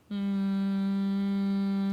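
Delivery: a steady closed-lip hum held on one note; sustained humming exercise on M. Shown as a demonstration. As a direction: hum on M, lips closed, buzzing forward. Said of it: "que é assim".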